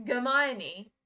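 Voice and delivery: Hermione said as "guh-MY-nee"; hard G Hermione. Shown as a demonstration. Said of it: "but ge?".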